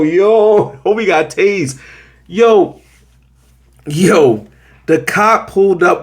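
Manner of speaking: high, startled yo; imitating a shocked onlooker; stunned. Onlookers react to a tasing, high and startled. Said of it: "Nobody turned to go".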